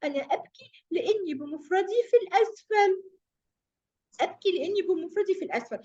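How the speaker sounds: mock tearful kasra, only lightly voiced; a touch of storybook weeping; crying kasra. Teacher voicing the lonely kasra for the children, mild mock crying. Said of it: "الكسرة يا أصدقائي قالت لها".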